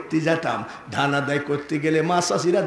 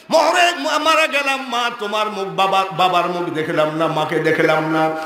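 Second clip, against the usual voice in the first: acted crying; 3 semitones higher than usual. Preacher acts Yusuf crying for his parents, wailing at first. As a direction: imitate a child's lament, settling into quicker speech. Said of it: "এইভাবে কান্দে".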